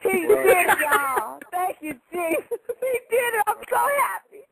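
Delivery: tearful joy. Real, not acted. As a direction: speak through happy tears, barely holding it. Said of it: "I'm about to cry because I'm so happy".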